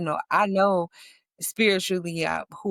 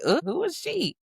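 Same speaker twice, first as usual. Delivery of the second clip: gossiping onlookers; 12 semitones higher than usual. Retold or imitated. People noticing her change.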